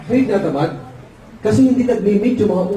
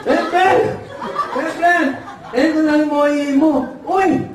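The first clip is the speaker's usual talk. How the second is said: high, acted calling to a buddy; cheery mock call; 6 semitones higher than usual. Son handing over the order, high mock call. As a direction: call to your pal, pitched up.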